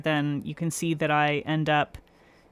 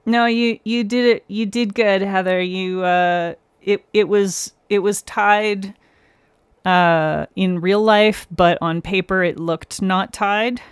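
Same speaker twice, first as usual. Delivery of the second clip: excited reassurance; 3 semitones higher, 6 dB louder than usual. Real, not acted. Streamer reassures viewer Heather about her vote, excitedly louder. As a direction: cheer Heather on brightly.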